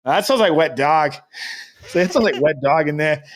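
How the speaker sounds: put-on clerk's light Boston accent; imitating a Bostonian, Rs dropped; loosely done New England accent; attempted Boston accent. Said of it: "missing the mark of my accent".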